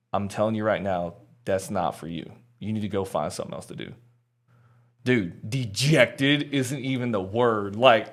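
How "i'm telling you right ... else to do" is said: stone cold refusal. Retold or imitated. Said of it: "looks me dead in the eye, like, stone cold".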